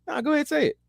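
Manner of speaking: high, teasing insistence; black actor daring the white actor, high and teasing; mock permissive actor. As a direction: dare him in a high voice. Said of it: "And the black guy said".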